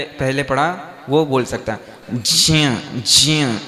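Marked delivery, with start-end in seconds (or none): 2.1-3.6 ज्ञा- sounded alone as jiya; clipped syllable. Shown as a demonstration. Teacher isolating ज्ञा- as jiya to show the sound. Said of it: "ज्ञानस नहीं बोलना".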